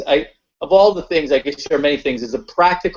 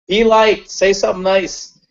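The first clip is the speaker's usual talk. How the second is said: inner voice; 6 semitones higher than usual. Retold or imitated. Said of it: "my past started talking to me like".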